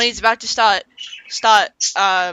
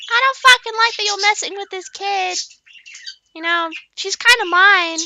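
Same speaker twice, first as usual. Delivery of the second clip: Three; 12 semitones higher, 3 dB louder than usual. Retold or imitated. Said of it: "then Three's like".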